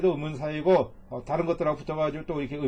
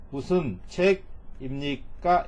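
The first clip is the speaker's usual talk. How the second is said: slow translation; much slower than usual. Shown as a demonstration. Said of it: "이렇게 되는 거예요".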